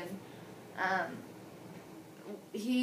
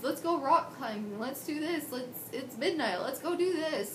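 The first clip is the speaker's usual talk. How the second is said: put-on eager old self; 5 semitones higher than usual. Quoting her old energetic self.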